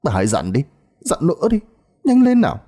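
high, loud midwife urging. Acted. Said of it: "Tiếng bà Đỡ hối thúc".

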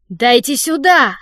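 loud, slow, commanding bark; barked order. Acted. The director demands the hat from Fanny, barked. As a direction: snap the demand like a boss. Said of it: "рявкнул он".

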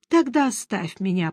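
strained, weary groan; wounded moan. Acted. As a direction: moan it like a dying man. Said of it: "простонал раненый". (стон раненого)

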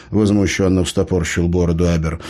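ordinary delivery

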